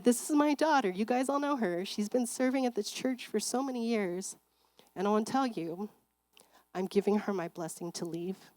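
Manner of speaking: lightly voiced pastor presenting his daughter; father's announcement. Father addressing the congregation.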